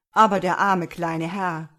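loud, concerned outburst; exclaiming. A narrator's reading. Farmer objects for the poor little master, exclaiming loudly. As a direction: burst out with it, well above talking level. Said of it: "rief jetzt der Bauer".

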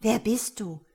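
mildly suspicious challenge. A narrator's reading. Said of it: "fragte Ria argwöhnisch".

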